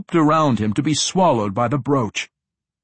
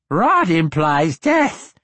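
ancient lich voice; 6 semitones higher, 5 dB louder, slower than usual. A narrator's reading. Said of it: "said the Lich".

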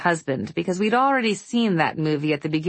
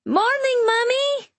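shouted greeting; slower than usual. Acted. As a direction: call it out like an excited kid. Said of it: "The speaker shouted".

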